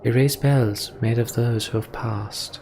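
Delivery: lightly voiced character recounting old lore; storytelling elder lore. Voices Alfred's quoted speech.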